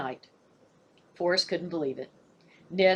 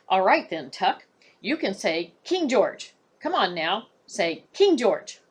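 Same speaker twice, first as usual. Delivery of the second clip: slow, louder coaxing, pressing on King George; urgent coaxing; 4 dB louder, slower than usual. Acted. Boy desperately coaxes his raven to talk. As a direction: coax the bird, almost begging.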